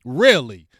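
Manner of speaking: squeaky high disbelief, then a loud flat repeat; can't believe what he's hearing; sky-high really, then a loud flat one; incredulous. Real, not acted. Incredulous reply to angry fans.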